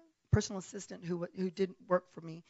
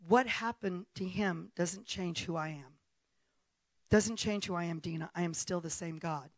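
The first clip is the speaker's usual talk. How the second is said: mild voice of God. Retold or imitated. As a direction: speak it like God comforting her gently. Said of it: "And he said".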